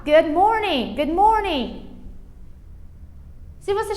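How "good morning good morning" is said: "good morning" with no vowel after the D; dry final D. Shown as a demonstration. Teacher models for beginners, "good morning" with dry D. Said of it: "o certo é falar".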